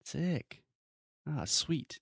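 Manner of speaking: high laid-back surfer dude; slangy excited dude; casual dude voice. Retold or imitated. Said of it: "We say".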